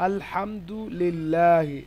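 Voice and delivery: আলহামদুলিল্লাহি slow and measured, long light "laa"; thin Lam pronunciation. Shown as a demonstration. Teacher gives a thin example, আলহামদুলিল্লাহি slow with light Lam. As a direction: stretch আলহামদুলিল্লাহি with a thin open "lillaahi". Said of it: "পাতলা বা বারিক হয়".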